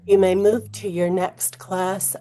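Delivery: loud, slow announcement with an odd edge; a hint of a tense school PA; intercom announcement. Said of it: "Claire's voice has an odd edge".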